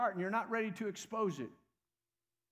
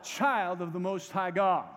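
slow call-and-response confession, pauses between phrases; firm declaration; 4 dB louder, slower than usual. Shown as a demonstration. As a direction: lead them firmly, phrase by phrase. Second call to repeat confession.

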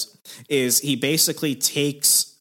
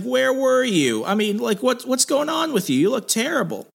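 retold alarmed questioning; 12 semitones higher than usual. Retold friends confronting Danny.

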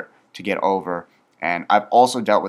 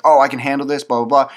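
cocky brush-off; 6 semitones higher, 8 dB louder than usual. Retold or imitated. Mimicking an overconfident person.

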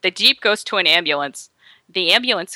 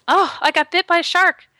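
much higher, mock distress; retold victim's complaint; 10 semitones higher than usual. Injured woman telling her boyfriend, high mock distress. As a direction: imitate a bitten swimmer breaking the news. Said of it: "and she says".

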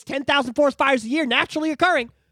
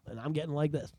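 laughing; 9 semitones lower, 12 dB quieter than usual. Real, not acted.

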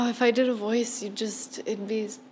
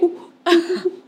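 high, hooting monkey imitation; monkey calls; 6 semitones higher, 4 dB louder than usual. Shown as a demonstration. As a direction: hoot and screech like a monkey. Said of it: "The monkey calls".

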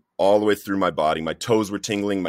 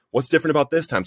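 retold angry yelling; 7 semitones higher, faster than usual. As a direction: re-enact angrily demanding an answer from God. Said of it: "I'm screaming and I'm yelling at God".

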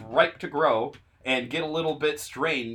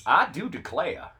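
put-on Southern accent; 3 semitones higher than usual. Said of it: "that accent".

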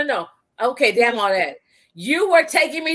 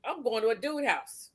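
lower, softer, slow mock confession to dad; mock announcement, hushed; 4 semitones lower, 10 dB quieter, slower than usual. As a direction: mutter it slowly like a scared confession. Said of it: "Imagine me telling Gregory Mitchell".

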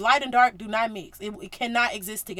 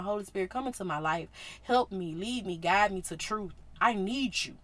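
prayer demo; 4 semitones lower, 5 dB quieter than usual. Shown as a demonstration. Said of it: "please say it right now".

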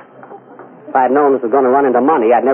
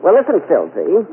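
higher cooing vamp voice; sultry invitation, higher; Mae West impression; 3 semitones higher than usual. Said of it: "This is Mae West".

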